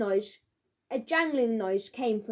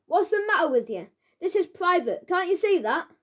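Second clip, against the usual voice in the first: higher, rising angry yell; angry shout; 6 semitones higher, 3 dB louder than usual. A narrator's reading. Gatekeeper scolding the children at the gate, rising shout. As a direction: climb in pitch as you tell them off. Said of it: "he shouted".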